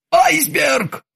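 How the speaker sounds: sudden high startled cry; exclaimed. A narrator's reading. Krueger cries out after falling off the stool, startled. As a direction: Krueger shouts the alarm in shock. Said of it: "воскликнул он".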